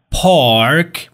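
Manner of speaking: British "پارک", drawn out, silent r; British accent, long ah and no r in "پارک"; British pronunciation. Shown as a demonstration. English teacher showing the silent r, British accent. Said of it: "توی بریتیش این آر تلفظ نمیشه".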